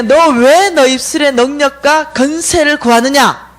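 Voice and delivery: slow, deliberate, emphatic question; dream messengers' questioning. Retold or imitated. Dream visitors question her request, slow emphatic delivery. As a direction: question her in measured words. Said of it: "이러시는 거예요".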